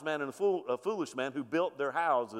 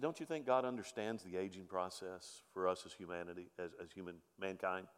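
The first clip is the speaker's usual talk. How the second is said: low, soft retold reassurance; gentle consoling; 9 semitones lower, 11 dB quieter than usual. Pastor to a crying elderly man, gentle consoling. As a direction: speak quietly, as if comforting someone upset.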